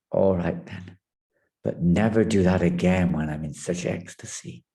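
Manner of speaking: stern lord. Acted. Shiva answers sternly.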